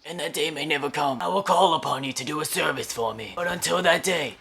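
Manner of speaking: put-on quiet mob don, measured phrases; Vito Corleone impression. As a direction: speak softly and deliberately as an old-time mob boss. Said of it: "doing that Vito Corleone impression".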